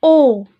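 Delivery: "O." said loud and held; teacher isolating the "O." sound; sound O stressed. Shown as a demonstration. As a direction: punch out the "O." as a clear vowel. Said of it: "Le son".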